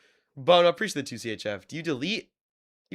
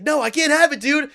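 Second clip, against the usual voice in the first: quoting scared classmate; 10 semitones higher, 5 dB louder than usual. Retold or imitated. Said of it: "He's like".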